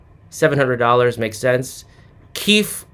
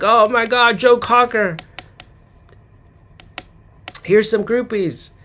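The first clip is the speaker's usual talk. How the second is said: mock starstruck fan, higher; gushing fans; 6 semitones higher than usual. Fans fawning over a singer, mock gushing. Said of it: "And they're like".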